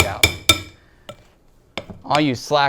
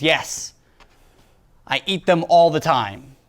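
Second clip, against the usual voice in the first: mock enthusiasm; 3 semitones higher, 4 dB louder than usual. Acting executive keen on dough tubes.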